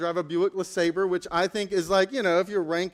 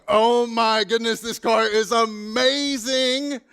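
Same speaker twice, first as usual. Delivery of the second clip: slow, louder gush of delight; thrilled gushing; 2 semitones higher, 5 dB louder, slower than usual. Retold or imitated. Passenger raving about the Porsche, slow and thrilled. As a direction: savor every word like a kid on a ride.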